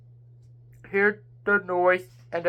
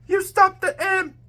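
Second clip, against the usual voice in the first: higher excited cry; shout; 10 semitones higher than usual. A narrator's reading. Rain shouting in triumph at James. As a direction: cheer the victory. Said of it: "and Rain shout".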